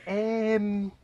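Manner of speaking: breathy guilty whisper; sheepish whisper. Retold or imitated. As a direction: whisper it like you've been caught. Sheepish reply to wife.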